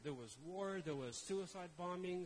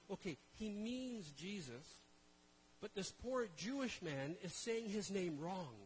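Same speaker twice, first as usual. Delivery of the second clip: smug inner thought; slower than usual. Retold or imitated. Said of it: "I was thinking".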